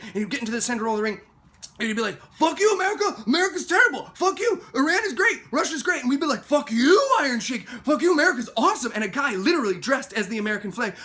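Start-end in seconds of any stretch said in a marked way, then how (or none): 2.3-6.0 high, loud hammed-up heel rant; mock villain taunts. Wrestling villain jeers at an American crowd, shouted mockingly. 6.4-8.9 high, loud fan shout back; mock crowd jeering. Wrestling fans answer the villain, shouting in mock outrage.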